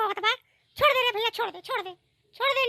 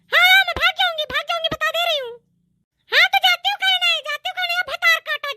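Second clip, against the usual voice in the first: louder, defiant shout back; angry retort; 3 semitones higher, 4 dB louder than usual. Acted. Daughter-in-law shouting back at her mother-in-law, defiant. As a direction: snap back at the old woman.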